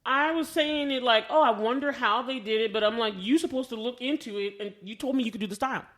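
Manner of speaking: ordinary talk, nothing marked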